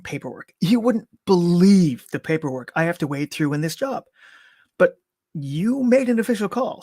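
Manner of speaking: mildly bouncy, upbeat chatter; bouncy and cheerful. Acted. Paramedic coaxing a frozen mother with upbeat bullshit, bouncy. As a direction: cheerfully spin a story to coax her back. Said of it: "My voice went bouncy and cheerful".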